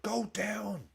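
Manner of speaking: urging the player to go down, a mild mock yell; retold shout. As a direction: yell it up high as if urging a dive. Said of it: "And I shouted".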